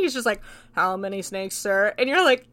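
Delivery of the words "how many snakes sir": deadpan. Retold or imitated. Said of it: "'cause it's so deadpan".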